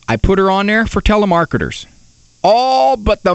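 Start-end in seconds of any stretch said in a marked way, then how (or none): none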